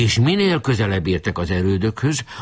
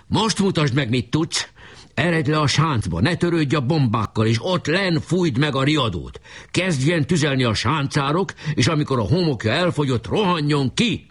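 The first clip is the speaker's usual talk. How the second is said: raised pitch, urgent commanding call; shouted orders; 6 semitones higher than usual. A narrator's reading. Leader sending his trumpeter to the trench, calling out. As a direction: rattle out battle orders in a higher voice. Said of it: "kiáltott Boka".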